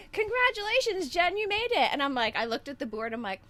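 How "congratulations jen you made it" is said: retold excited caller. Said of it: "And they're like".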